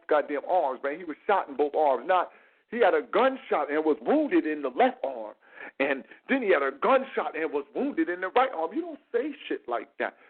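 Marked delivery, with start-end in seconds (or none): 2.7-8.7 mock stilted reading, word for word; reading from script. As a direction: recite it like a written script. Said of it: "That's when you read it from the script".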